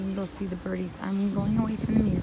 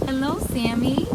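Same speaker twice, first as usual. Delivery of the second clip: pet talk; 5 semitones higher, 4 dB louder than usual. Real, not acted. Greeting parrot Sammy.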